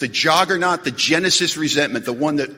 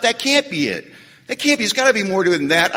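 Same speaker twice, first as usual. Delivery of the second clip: mock disbelief; 3 semitones higher than usual. Voices newcomers doubting the simple example.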